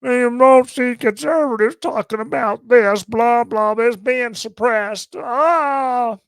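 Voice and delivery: high, loud, whiny mock complaint; mocking Twitter pundit. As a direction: lampoon an outraged pundit, shrill and squeaky. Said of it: "one of the Krasenstein boys on Twitter".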